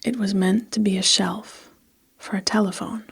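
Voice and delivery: measured, evenly phrased storytelling; story narration. A narrator's reading. Narrator recording a story for listeners, measured storytelling. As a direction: read it steadily with pauses between phrases. Reads a story between retakes.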